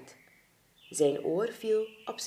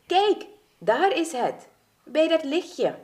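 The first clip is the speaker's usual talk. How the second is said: high, loud, drawn-out exclamation; eager cry, stretched and pitched up; excited pointing-out; 9 semitones higher, 4 dB louder than usual. Acted. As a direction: call out the long-awaited sight. Spots their destination.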